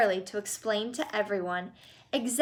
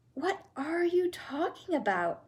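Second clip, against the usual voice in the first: Mrs Bucket voice; 6 semitones higher, 4 dB quieter than usual. Acted. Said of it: "said Missus Bucket".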